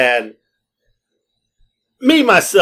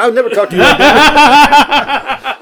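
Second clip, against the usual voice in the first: higher, slow, laughing disbelief; mock indignant; 9 semitones higher, 6 dB louder, slower than usual. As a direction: play hurt innocence, cracking up. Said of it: "my friend said to his girlfriend".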